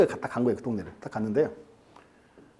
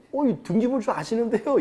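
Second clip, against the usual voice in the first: lightly acted flustered seller, higher; mock being caught off guard, pitch raised; 4 semitones higher than usual. Caught-out land seller to the lecturer, mildly flustered. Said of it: "좀 당황하더니".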